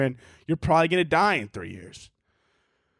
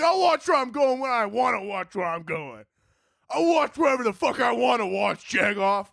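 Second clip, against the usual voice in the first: mock angry comeback; 3 semitones higher than usual. Comic to drivers who scold them, mock defiant comeback. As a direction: throw it back at a heckling driver. Acted comeback in a road quarrel.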